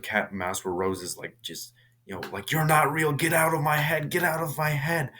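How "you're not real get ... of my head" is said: high, rapid-fire panicked chant; imitated frantic plea. Rose chased through the house, imitated high frantic denial. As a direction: act out a desperate cry, high-pitched.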